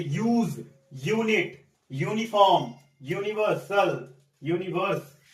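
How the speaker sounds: यूज, यूनिट, यूनिफॉर्म, यूनिवर्सल, यूनिवर्स each opening on a clear 'yoo'; long u as yoo. Shown as a demonstration. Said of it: "जिसको यू पढ़ते हैं". (यूज, यूनिट, यूनिफॉर्म की शुरुआत साफ़ यू से)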